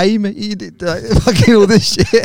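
light, laughing Geordie woman impression; Geordie accent. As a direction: rattle it off in a thick Geordie accent. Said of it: "in a little Geordie accent".

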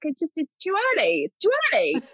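high-pitched mock-panicked protest; retold dismay. Retold protest at winning too soon.

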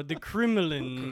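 slow mock Russian accent; put-on Russian delivery. Shown as a demonstration. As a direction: practise it slowly in Russian accent. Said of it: "see if I can do a Russian voice".

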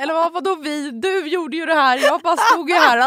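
excited self-mockery. Self-mocking retort in the story.

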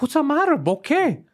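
defensive friend, hammed up; mock defensive. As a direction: brush off the complaint. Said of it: "He's like".

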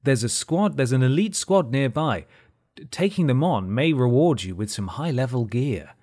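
mock in-game announcer prompts. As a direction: read it like a game notification. Mimics the game's announcer prompts.

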